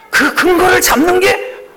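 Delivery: whispered with a joyful laugh. Acted. Pastor to congregation, whispering joyfully with a laugh. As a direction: breathe out the joy in a laughing whisper.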